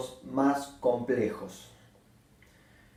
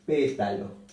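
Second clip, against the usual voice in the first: Pétalo with PÉ leaned on; stress on PÉ. Shown as a demonstration. Teacher modelling the stress of Pétalo. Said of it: "se acentúa en la antepenúltima".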